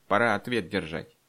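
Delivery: self-important elder's proclamation; pompous, angry pronouncement; loud and pompous. A narrator's reading. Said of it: "как громко и важно сказал".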